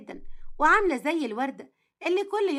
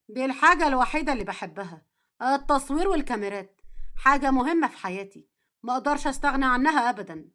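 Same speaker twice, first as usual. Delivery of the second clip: a hint of a firm husband, slightly lowered; lightly voiced earnest husband; 2 semitones lower than usual. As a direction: lightly play a man insisting on his passion.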